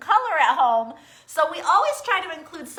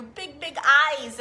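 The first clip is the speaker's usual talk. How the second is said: slow; slower than usual. Shown as a demonstration. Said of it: "Shall I remind you?".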